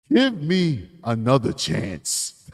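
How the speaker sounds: slow, mock pleading beg; hammed-up plea for another chance. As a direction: whine it like the guilty man begging. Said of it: "That's what he's asking for".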